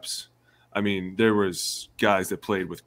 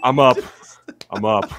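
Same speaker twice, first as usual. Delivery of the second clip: loud, eager I'm up; hasty shout; 3 semitones higher, 7 dB louder than usual. Retold or imitated. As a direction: jump to obey, loud. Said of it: "I'm like".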